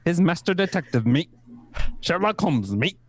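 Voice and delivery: put-on Kiwi accent.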